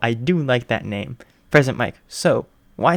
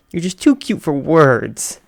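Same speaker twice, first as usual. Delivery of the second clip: gushing; 4 semitones higher, 5 dB louder, slower than usual. Acted. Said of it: "she squealed, not dissimilar to Aozora".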